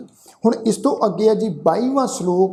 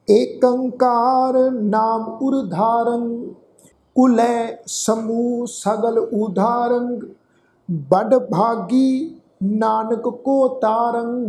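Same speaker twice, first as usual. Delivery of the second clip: slow, drawn-out sacred recitation; scripture recitation; 2 semitones higher, much slower than usual. Shown as a demonstration. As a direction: recite slowly, holding the long vowels. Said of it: "ਸਮੁੱਚਾ ਪਾਠ ਉਚਾਰਨ ਕਰਦੇ ਹਾਂ".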